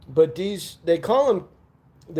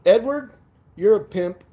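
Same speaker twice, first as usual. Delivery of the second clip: excited call-out; 5 semitones higher, 3 dB louder than usual. Real, not acted. Calling out to chat member.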